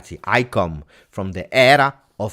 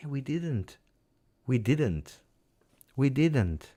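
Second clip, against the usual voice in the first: bitter quiet; 2 semitones higher, 7 dB quieter, much slower than usual. Real, not acted. Bitter verdict on team.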